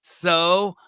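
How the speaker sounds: high, indignant squeal; mock outrage. Real, not acted. Mock offence at a teasing joke.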